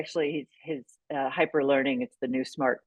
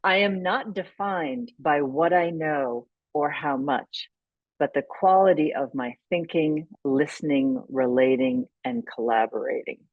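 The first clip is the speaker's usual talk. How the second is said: reading a quote. Acted. Repeats the quote aloud.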